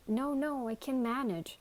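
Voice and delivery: nervous, hurried refusal; scared. A narrator's reading. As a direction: insist while frightened. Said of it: "sounding scared".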